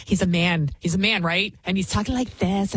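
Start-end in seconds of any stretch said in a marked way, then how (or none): 1.9-2.8 mock effeminate delivery, lightly put on; effeminate mimicry. Host apes the clip's speaker, mildly effeminate. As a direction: imitate a man talking in a womanish way. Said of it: "talk like an effeminate".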